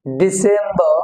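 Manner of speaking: ডিসেম্বর ending in open "ba"; silent R. Shown as a demonstration. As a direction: say ডিসেম্বর as "di-sem-ba". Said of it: "এখানে রটা উচ্চারণ হচ্ছে না".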